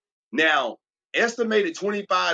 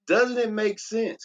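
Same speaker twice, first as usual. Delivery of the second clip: slow, raised pitch on "Doesn't it make sense?", leaning in on "Doesn't"; high rhetorical question; 6 semitones higher, slower than usual. Shown as a demonstration. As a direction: ask it up high and slowly, inviting agreement. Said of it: "Can I ask you this question?".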